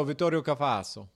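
lightly put-on Italian pronunciation; Italian accent. Shown as a demonstration. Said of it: "in an Italian accent".

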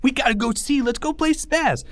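high, eager, incredulous chatter; excited kids. Acted. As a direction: schoolboys egging each other on. Friends revel in the screaming.

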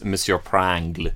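Frenchified name, lightly put on; playful French pronunciation; French accent. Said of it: "he's French".

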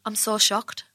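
lightly voiced, deadpan pop star; a singer. Showing off a celebrity impression, lightly imitated deadpan shock. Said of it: "That's my pop star".

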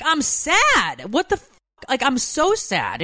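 high, mock-wailing complaint; retold tearful protest. Crying mom answering her husband, high mock wail. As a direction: act out the weepy outburst, pitch swooping up. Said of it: "I'm crying and crying".

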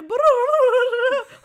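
long, high, loud trilled noise; exaggerated Spanish babble as one rolled sound; mock Spanish trill. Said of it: "then they switched to Spanish. I was like".

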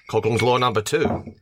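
put-on Aussie announcement; Australian accent. Co-host announces a drinking-game rule, mock Australian accent. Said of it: "in the Australian accent?".

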